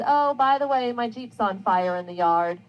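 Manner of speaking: high, light opening dropping to a casual tone; offhand, unbothered remark; nonchalant. Acted. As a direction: toss it off as if it hardly matters. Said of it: "she just nonchalantly says".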